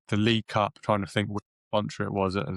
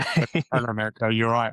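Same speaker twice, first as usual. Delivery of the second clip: light, half-hearted Scouse; hint at a Scouse accent; slower than usual. Retold or imitated. Gerrard greeting a fan's brother on the phone, light Scouse. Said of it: "I'm not gonna do a Scouse accent".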